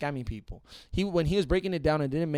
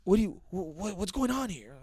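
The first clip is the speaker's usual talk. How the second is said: mock friendly white boy; 7 semitones higher than usual. Acting the white boy at cops.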